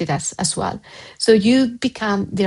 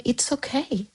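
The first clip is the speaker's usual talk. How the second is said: tender, hushed reassurance; comforting parent; 3 semitones higher than usual. Retold or imitated. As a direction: gently reassure a child who apologises. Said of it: "you tell them".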